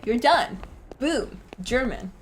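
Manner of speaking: a hint of a bad German accent, mock proud; lightly tossed-off bad German accent. Shown as a demonstration. Showing the new player a bad German accent. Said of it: "That's how you do a bad German voice".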